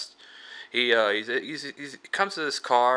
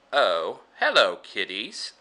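Crypt Keeper; slower than usual. Acted. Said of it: "the Crypt Keeper".

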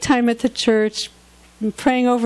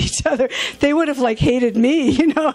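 laughing through the words, pitched up; amused; 3 semitones higher than usual. Real, not acted. Speaker joking about photographing a feuding couple, amused. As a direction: chuckle at the absurd idea.

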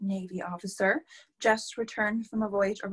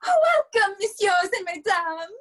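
much higher, louder showy announcement; grand welcome; 10 semitones higher, 7 dB louder than usual. Acted. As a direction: try out the opening like a hostess on stage. Rehearsing a grand welcome speech.

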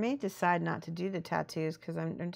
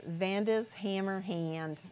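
Midwest accent; slower than usual. Shown as a demonstration. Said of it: "If you were saying it Midwest accent".

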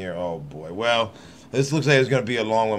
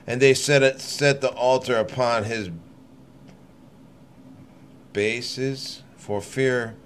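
measured, solemn Bible reading; deliberate King James recital; scripture reading. Acted. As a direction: read the verses steadily like a lay preacher. Reads scripture aloud.

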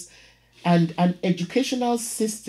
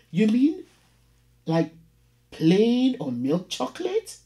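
clinical landlady; 6 semitones higher than usual. Acted. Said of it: "Her accent was clinical".

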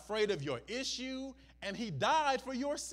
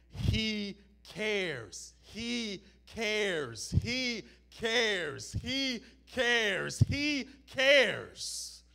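building repetition; much slower than usual. Acted. Repeated phrase building up.

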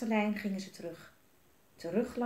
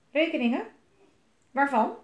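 loud, high questioning; incredulous director; 6 semitones higher, 8 dB louder than usual. A narrator's reading. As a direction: query each word as a demanding boss. Director queries the mayor's bills.

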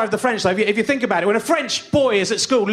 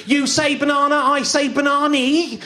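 high-pitched, mock-outraged protest; exasperated rant; 4 semitones higher than usual. Comic ranting at a man who says words differently, exasperated. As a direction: scold him as if chaos looms.

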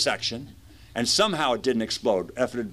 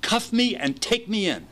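higher, overly polite faking-sober voice; put-on sober voice; 10 semitones higher than usual. Drunk driver pleading politely with deputies, higher faking-sober voice. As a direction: sound sober and charming for the cops. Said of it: "I'm talking kind of in this voice".

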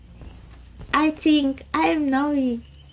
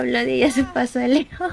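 laughing. Real, not acted. Laughing while reading chat.

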